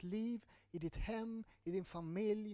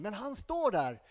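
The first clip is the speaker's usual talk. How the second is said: "står" pushed out louder and slower; emphatic stress; 4 semitones higher, 8 dB louder, slower than usual. Real, not acted. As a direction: lean hard on "står", slow and firm. Preacher stresses lover's persistence. (betoning på "står", långsamt och kraftfullt)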